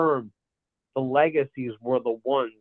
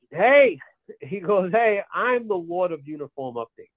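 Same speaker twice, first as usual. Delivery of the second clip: mock defensive; 4 semitones higher than usual. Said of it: "defends his brother by saying".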